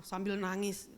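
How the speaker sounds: normal talking voice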